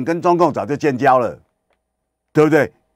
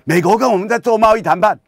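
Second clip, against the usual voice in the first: higher, louder gasping wonder at the news; mock awed crowd; 7 semitones higher, 5 dB louder than usual. Gullible listeners mimicked in awed excitement. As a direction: play the gullible public going wow. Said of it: "大家就".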